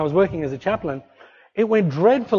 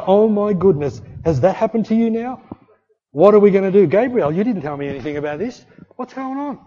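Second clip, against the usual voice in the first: mock panic; 2 semitones higher, 4 dB louder than usual. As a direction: play God fussing in a fake panic. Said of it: "is God in heaven going like".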